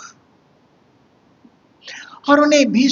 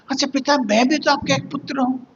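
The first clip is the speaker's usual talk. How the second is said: Nachiketa; 5 semitones higher, faster than usual. Retold or imitated. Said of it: "छोटा बालक नचिकेता".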